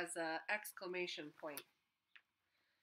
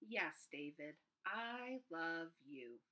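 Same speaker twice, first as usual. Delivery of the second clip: tender mom; 4 dB quieter, much slower than usual. Acted. Mom comforting David at end.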